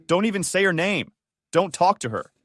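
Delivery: high loud scream. A narrator's reading. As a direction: scream it at him. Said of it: "My mom screamed".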